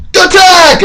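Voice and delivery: drawn-out high-pitched attack yell; battle cry. Acted. Washington attacking a French fort, high hammed-up battle cry.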